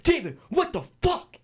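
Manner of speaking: high, outraged mock yell; retold screaming. Storyteller imitating furious houseguest, high mock scream. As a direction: imitate her hollering through the wall. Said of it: "all I heard was screaming".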